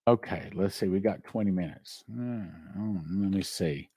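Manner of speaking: tired, worn-out voice; voice giving out. Real, not acted. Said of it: "My voice is giving out".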